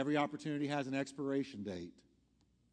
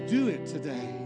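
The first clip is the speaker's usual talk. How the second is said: urgent call; 7 dB louder than usual. Real, not acted. Urgent altar call climax.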